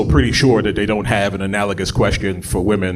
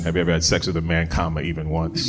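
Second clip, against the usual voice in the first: flat form read; 4 semitones lower, 5 dB quieter than usual. Shown as a demonstration. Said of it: "second question that'll get you disqualified".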